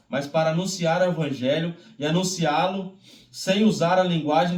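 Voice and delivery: firm, fuller Bible reading voice; solemn public reading of the Bible; scripture reading. Acted. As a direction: read the epistle out to the congregation. Reads scripture aloud.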